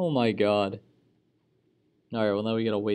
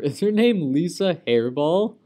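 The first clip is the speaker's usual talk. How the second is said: laughing; 7 semitones higher, 8 dB louder than usual. Real, not acted. Laughing at a character's name.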